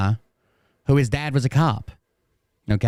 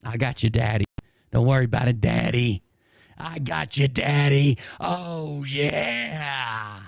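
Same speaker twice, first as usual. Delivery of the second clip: mock cat voice; 2 semitones higher, 3 dB quieter, slower than usual. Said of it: "My voice is fucking shit".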